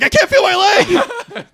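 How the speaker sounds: high, drawn-out mock cry; mock wail. Retelling a film scene to co-host, high mock wail. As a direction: wail it slowly, hammed up for laughs. Acting out a film character's panic.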